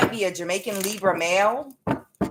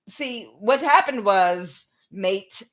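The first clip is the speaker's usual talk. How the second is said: slow, halting stab at British; badly faked British accent; attempted British accent; much slower than usual. Explaining what happened to a mate, attempted British accent. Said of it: "in Britain. I can't do it".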